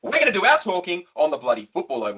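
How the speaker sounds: loud, fired-up rant. Real, not acted. Hyping the team up on the podcast, fired up loudly. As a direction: get fired up and let it rip. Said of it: "watch your volume".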